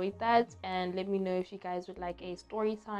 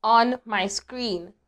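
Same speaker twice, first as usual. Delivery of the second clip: alarmed; 3 semitones higher, 10 dB louder, much slower than usual. Real, not acted. Spots a spider on screen.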